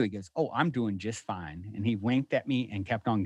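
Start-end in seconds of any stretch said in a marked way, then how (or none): 0.4-1.7 low, soft, unhurried retold reply; calm reassurance. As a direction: imitate a serene stranger, slow and quiet. Retells stranger's calm, lucid answer.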